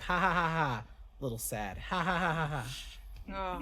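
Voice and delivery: forced ha-ha sinking into a little sad; imitated sad laughing. Retelling an edible high to friends, mock sad laughing. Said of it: "So that's how I go".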